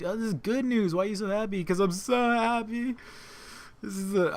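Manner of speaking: high, giddy pretend fan crying with joy; mock giddy fan. Imagining himself at Comic-Con, hammed-up happy squeal. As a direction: squeal like an overjoyed little kid. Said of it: "to scream like a little girl and cry".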